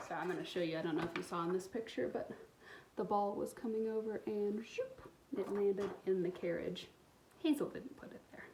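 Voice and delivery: put-on expressive read-aloud for young kids; storybook reading. A narrator's reading. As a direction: tell the story warmly to little listeners. Reads picture book aloud.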